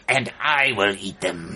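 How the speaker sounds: I said with a rise; stress on I. Shown as a demonstration. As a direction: put weight on the word I. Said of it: "No, no, say".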